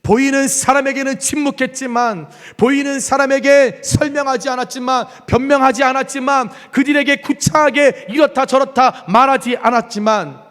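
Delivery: full-force preaching. Acted. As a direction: drive each clause home from the pulpit. Building preaching.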